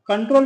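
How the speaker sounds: कंट्रोल with the weight on its last part, ट्रोल; stress on second syllable. Shown as a demonstration. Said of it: "एक syllable पर stress पड़ रहा है". (कंट्रोल में ट्रोल पर ज़ोर)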